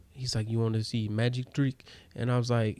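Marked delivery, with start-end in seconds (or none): 0.5-1.8 imitated Russian magician; lightly accented Russian street magician's pitch. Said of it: "that's how he sounded".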